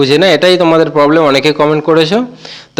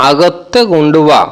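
আগত্তে কুণ্ডুবা drawn out slowly, each syllable clear; slow careful model of আগত্তে কুণ্ডুবা; slow repeat; slower than usual. Shown as a demonstration. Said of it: "Malayalam ভাষায় আমরা বলবো".

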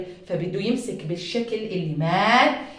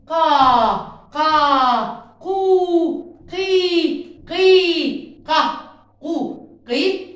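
loud, higher chanting of syllables; loud drill; 5 semitones higher, 4 dB louder, much slower than usual. Shown as a demonstration. Teacher leading the class in loud syllable reading. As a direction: call the syllables out energetically to lead the class.

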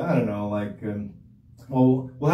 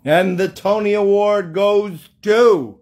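award show announcer; 4 semitones higher, 5 dB louder, slower than usual. Pretend.

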